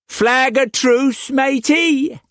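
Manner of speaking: high, slow sly pirate voice; cocky pirate. A narrator's reading. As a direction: lean in like a rogue with a secret. Pirate figure voice.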